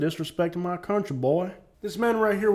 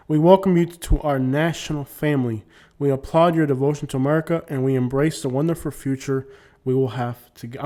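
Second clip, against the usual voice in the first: emphatic read-aloud; formal letter reading. Acted. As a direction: read out the official welcome with feeling. Reads citizenship letter aloud.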